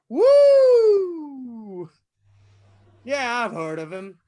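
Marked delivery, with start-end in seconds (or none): 0.1-1.9 a loud, high whoop of glee; excited whoop. Acted. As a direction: whoop it out like you just walked in triumphant. Serial killer enters pool hall.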